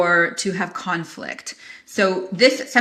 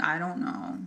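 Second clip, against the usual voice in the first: unsure client; 2 semitones lower, 9 dB quieter, slower than usual. Retold or imitated. Client retreating when asked.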